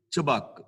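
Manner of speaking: ਝਬਕ set off on its own; read apart. Shown as a demonstration. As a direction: say ਝਬਕ separately. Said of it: "ਇਹਨੂੰ ਥੋੜ੍ਹਾ ਜਿਹਾ ਅਲੱਗ ਪੜਾਂਗੇ".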